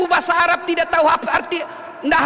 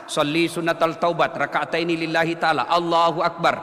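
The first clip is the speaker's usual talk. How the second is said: lower, measured Arabic prayer recital; reciting the Arabic intention; 10 semitones lower than usual. Shown as a demonstration. Preacher demonstrates the Arabic intention for the congregation. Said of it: "kalau mau ucapkan juga bagus".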